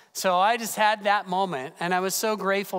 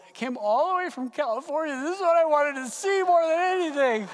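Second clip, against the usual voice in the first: raspy crying voice; 9 semitones higher than usual. Retold or imitated. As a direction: choke it out through tears, raspy and high. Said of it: "through my raspy voice".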